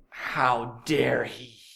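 slow, low muttered outrage; a hint of indignant murmuring; murmured complaint. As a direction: grumble it like a scandalised Pharisee. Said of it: "they murmured, they complained".

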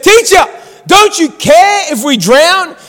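alarmed disciples. Retold or imitated. Disciples waking Jesus in the storm, alarmed. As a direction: plead in mock alarm, stretching the words.

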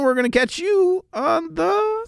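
drawn-out singsong outro; sign-off catchphrase. Acted. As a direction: stretch the sign-off, slow and high.

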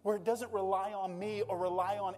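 preaching fervor. Real, not acted. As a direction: preach it with rising passion.

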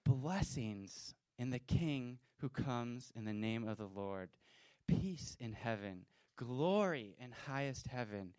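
loud, joyful proclaiming of praise; crowd shouting praise. Retold or imitated. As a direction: call it out like a cheering crowd. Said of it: "people started shouting".

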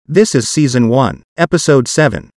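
synthetic text-to-speech voice; computer-generated voice. Real, not acted. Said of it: "So my parts will be done with a computer-generated voice".

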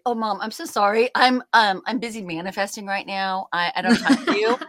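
mock-apologetic snark, quick at the end; a son's sarcastic brush-off, fast; snarky. Son brushing off his mom, mocking and snarky. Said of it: "very snarky".

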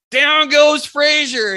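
retold victory shout to a hunting partner; triumphant yell. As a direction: holler the win across the woods. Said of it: "I yelled to Brett".

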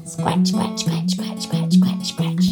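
breathy whispered scratching sounds. Shown as a demonstration. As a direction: whisper each scratch rhythmically. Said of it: "Can you scratch?".

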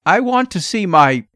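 tense father's unfinished plea; anxious demand. A narrator's reading. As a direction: press anxiously, breaking off mid-sentence. Nervous father's demand cut off.

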